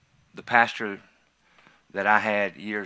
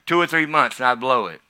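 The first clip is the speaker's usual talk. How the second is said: full-force preaching; 5 semitones higher, 12 dB louder than usual. Real, not acted. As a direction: shout it over the congregation.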